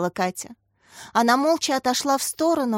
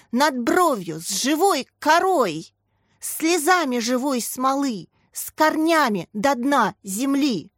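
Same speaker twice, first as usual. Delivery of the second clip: slow, higher recitation with feeling; heartfelt recitation; 4 semitones higher, slower than usual. A narrator's reading. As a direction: read the poem with feeling, slowly. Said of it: "с чувством прочитал мальчик". (мальчик с чувством читает стихи)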